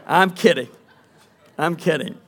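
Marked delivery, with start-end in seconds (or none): 0.1-0.7 laughing. Real, not acted. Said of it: "No, I'm just kidding".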